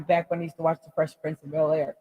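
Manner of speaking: usual speaking voice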